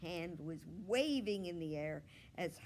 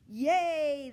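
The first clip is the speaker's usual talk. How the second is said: put-on kids cheering at the top of their lungs; loud cheer; 10 semitones higher, 14 dB louder than usual. A narrator's reading. Second graders cheering their teacher, loud yay. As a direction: shout it out with glee. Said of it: "said in a very loud voice".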